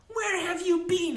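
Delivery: very high-pitched woman's outcry; indignant cry. A narrator's reading. Molly springing up at the unicorn, crying out indignantly. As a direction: cry out in high-voiced reproach. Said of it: "she cried".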